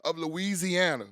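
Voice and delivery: upbeat sponsor read for a rehab. Acted. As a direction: sell it like a radio spot. Host reads sponsor spot.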